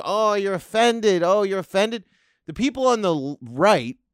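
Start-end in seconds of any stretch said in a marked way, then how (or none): 0.0-2.1 slow, sneering mock pity. Comedian mocking offended people, sneering. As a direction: tease them, drawn out. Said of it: "You go".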